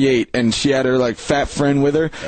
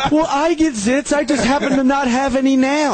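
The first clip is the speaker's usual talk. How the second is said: imitating her voice; 10 semitones higher than usual. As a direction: play her clueless and sure of herself. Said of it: "he's imitating her voice perfectly".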